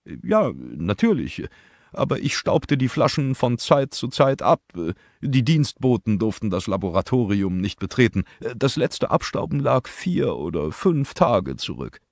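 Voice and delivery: a hint of a different man explaining; lightly voiced chemist under questioning; lightly voiced witness. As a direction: answer the questions calmly. Second figure answers questioning.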